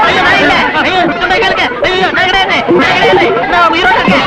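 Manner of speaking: high, frantic protests in short repeated bursts; panicked pleading. Acted. Man protesting he is still alive, panicked pleading.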